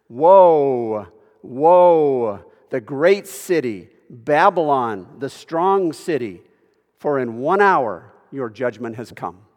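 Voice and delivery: loud, drawn-out cries over a fallen city; weeping lament, acted. Preacher reading the kings' cry over Babylon, loud lament. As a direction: proclaim it loudly, stretching the woes in lament. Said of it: "will weep and lament over her".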